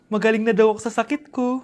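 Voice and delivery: put-on old mother. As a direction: speak as the mom. Mother voiced, lower.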